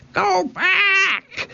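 shrill, very high screech of a parrot; a parrot screeching a warning; parrot squawk. A narrator's reading. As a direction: squawk it like a bird. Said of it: "squawked Polly".

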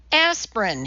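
hoarse, demanding voice. Acted. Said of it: "he demanded hoarsely".

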